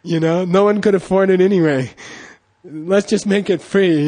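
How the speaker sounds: a hint of a teacher's exasperation; mock upset teacher. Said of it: "he got really upset".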